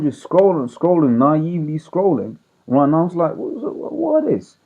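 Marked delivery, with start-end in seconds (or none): 3.4-4.6 retold shock. Shocked while scrolling Twitter.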